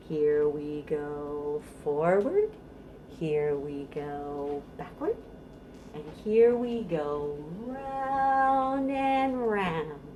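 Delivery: sing-song rhyme, rising on up and falling to a whisper on down; playful action rhyme. Shown as a demonstration. Librarian demonstrating a baby bounce rhyme, sing-song. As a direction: act out the directions for a baby. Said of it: "it goes like this".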